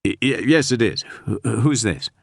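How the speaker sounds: caught off guard. Acted. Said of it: "I quickly changed my tone".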